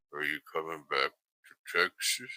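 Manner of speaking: very low, soft, mechanical robotic voice. Retelling strange calls he kept getting: robotic voice. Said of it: "very robotic sounding dude that was like".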